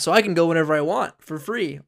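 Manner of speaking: normal talking voice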